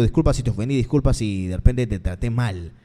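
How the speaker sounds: low, subdued mock apology; acted low-pitched apology. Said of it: "después hay una disculpa de por medio".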